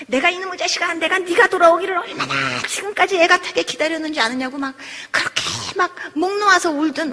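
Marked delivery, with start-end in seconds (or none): 0.1-4.6 imitating a mother lamenting to her returned child; a hint of a wailing mother; lightly voiced anguished mother. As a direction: stretch it out like a mother's reproachful lament. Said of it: "집 나간 자식 돌아왔을 때 엄마가".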